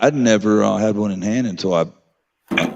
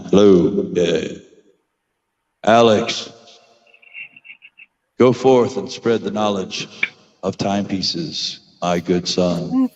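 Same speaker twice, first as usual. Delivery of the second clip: God voice; slower than usual. Acted. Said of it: "wanted to do the God voice".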